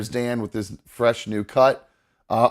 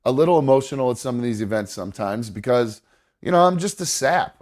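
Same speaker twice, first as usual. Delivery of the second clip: choked up; 3 semitones higher than usual. Real, not acted. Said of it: "I'm sorry I get choked up".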